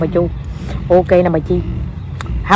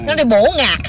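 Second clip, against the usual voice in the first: playful Quảng Nam demonstration; Quảng Nam accent; 2 semitones higher than usual. Shown as a demonstration. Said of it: "đang nói tiếng Quảng Nam".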